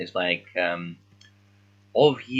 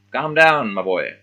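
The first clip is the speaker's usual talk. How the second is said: teacher soothing; 4 semitones higher, 7 dB louder than usual. Acted. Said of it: "verb meaning, yeah, calm down".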